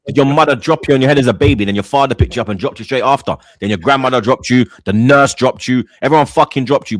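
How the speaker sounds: loud mocking roast; mocking rant. Real, not acted. Roasting a caller, ranting.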